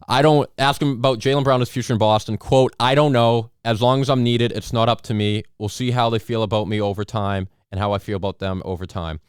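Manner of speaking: anchor reading a quote aloud; formal newsroom read of the quote; news anchor. Pretend. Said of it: "anchor impression".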